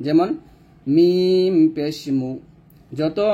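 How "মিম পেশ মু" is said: slow spelling demo with rounded lips on মু. Shown as a demonstration. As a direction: draw out মিম long, then a round-lipped মু. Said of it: "পেশ উচ্চারণ করলেই ঠোঁট গোল হবে". (ঠোঁট গোল করে টেনে মিম পেশ মু)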